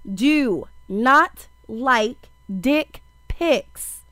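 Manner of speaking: each word spaced out slowly; deliberate slow emphasis; slow emphatic. Acted. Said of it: "say this loud and clear".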